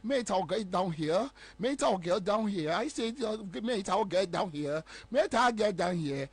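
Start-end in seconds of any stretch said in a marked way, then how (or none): 0.0-2.7 slow, mock foreign English accent, drawn out; imitating a white man. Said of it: "wo te borɔfo". 3.6-6.3 slow, mock foreign English accent, drawn out; imitating a white man. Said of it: "wo te borɔfo".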